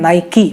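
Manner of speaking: Nike said as two syllables, "nai-kee"; correct pronunciation. Shown as a demonstration. Host teaching the brand's real name, careful pronunciation. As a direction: say Nike ending in a clear "kee". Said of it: "इसका actual pronunciation है".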